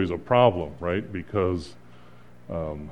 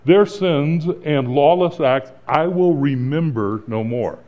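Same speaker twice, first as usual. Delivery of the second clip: slower, weighty pronouncement; a touch higher, solemn declaration of God; voicing God's promise; 3 semitones higher than usual. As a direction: proclaim it as God's own vow. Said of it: "God comes and he says".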